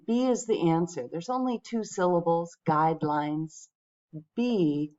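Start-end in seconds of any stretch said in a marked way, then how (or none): 2.7-3.7 "guidelines" with GUIDE stronger than lines; stress on first syllable. Shown as a demonstration. Teacher confirming the quiz answer, first syllable of "guidelines" stressed. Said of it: "the first syllable getting the stress".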